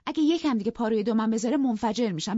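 high and loud, about to explode; angry threat. Acted. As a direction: blow up at him. Wife furious at husband. (تهدید خشمگین و بلند)

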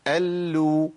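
الو with a held L opening into "lu"; doubled lam with damma. Shown as a demonstration. Teacher models same timing, held L in الو released to u. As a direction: hold the L in الو, then round to u. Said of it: "نفس الزمن".

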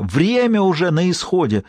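urgent shout. Acted. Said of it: "кричала Лэнгдону незнакомка".

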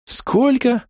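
shocked, very high gasp. Acted. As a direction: blurt it out, stunned by the price. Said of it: "ахнул я".

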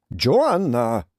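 put-on a young man's angry outburst at a name; angry shout. A narrator's reading. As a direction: snap the name out in anger. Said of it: "Kiáltott dühösen Tim".

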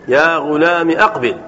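يا غلامي with a short "mi" running into أقبل; "ya ghulami aqbil", short i in يا غلامي; kasra without ya. Shown as a demonstration. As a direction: keep the end of يا غلامي brief before أقبل. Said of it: "بدون ياء".

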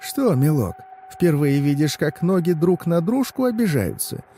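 high-pitched folksy crone; old woman. Acted. Old woman warning the driver about his hands, high crone voice. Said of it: "Она мой взгляд заметила и говорит".

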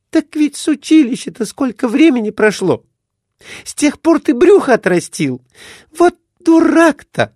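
very high, loud shrill scolding wife. A narrator's reading. Wife scolds her drunk husband after his fall, very high and loud. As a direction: scold him like an angry wife.

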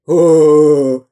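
loud jeering hoot; loud mocking hoot; mocking laughter. A narrator's reading. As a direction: jeer at the boy. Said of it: "засмеялись разбойники".

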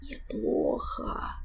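very slow, breathless, near fainting; faint whisper. Acted. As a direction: barely get it out before fainting. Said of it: "повторил Жак".

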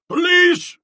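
a loud, very high bawl. A narrator's reading. The dictator bawling for the police, full loud shout. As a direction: bellow the word out across the street. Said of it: "he bawled".

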